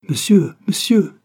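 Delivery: high, loud, drawn-out call. A narrator's reading. Young clerk calling a man from the window, calling out. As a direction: shout after someone, stretching each word. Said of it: "cria le petit clerc en ouvrant la fenêtre".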